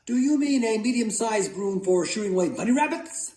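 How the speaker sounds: put-on high, boyish pleading question; hopeful asking. A narrator's reading. Boy asking mother which broom, high hopeful question. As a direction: pitch it well up, innocently hopeful.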